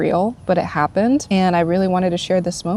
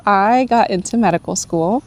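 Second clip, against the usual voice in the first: laughing with joy; 2 semitones higher than usual. Real, not acted. Laughing while revealing acceptance.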